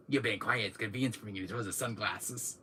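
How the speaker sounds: low, cold villain line; lightly voiced smug villain; Wesker impression. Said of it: "I'm doing the Wesker thing".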